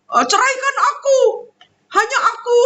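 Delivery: imitating a high, pleading demand through laughter; half-laughing, act out the desperate demand; mock plea, laughing. Acts husband's demand, laughing. (meniru rengekan tinggi sambil tertawa)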